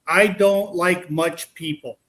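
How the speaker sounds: slow, deliberate mimicked ghost; imitated spirit voice. Investigator mimicking the spirit's answer, slow imitation. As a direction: copy the spirit word by word, drawn out. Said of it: "Exactly how he said it".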